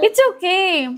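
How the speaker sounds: high, cooing reassurance; lilting parental comfort. Real, not acted. Parent comforting an upset child.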